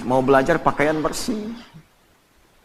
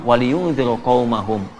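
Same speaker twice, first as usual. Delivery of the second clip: Quran recitation; 4 semitones lower, slower than usual. Acted. Quotes Quran verse.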